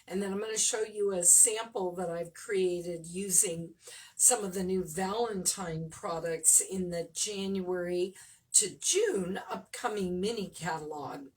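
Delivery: frog in the throat, rattly and chesty. Real, not acted. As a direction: talk through a rattly, phlegmy throat. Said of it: "got a frog in my throat".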